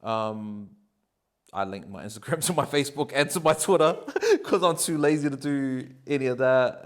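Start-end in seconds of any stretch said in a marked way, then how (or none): 2.4-6.8 chuckling through the words; laughing. Real, not acted. Guest telling the interviewer he is lazy, laughing. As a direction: laugh it off while admitting laziness. Laughing about own laziness.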